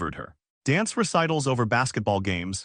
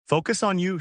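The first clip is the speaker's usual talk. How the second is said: firm; 7 semitones higher than usual. Acted. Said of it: "she says firmly".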